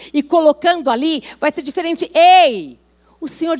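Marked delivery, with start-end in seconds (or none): 2.1-2.8 calling out. Real, not acted. Preacher calling out to congregation.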